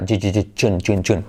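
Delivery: "June" drilled with a voiced ch at the start; jota inglesa sonora. Shown as a demonstration. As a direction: repeat the opening "ju" low, then "June". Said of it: "Es como una Che, pero activando la cuerda". («June» con una che sonora inicial)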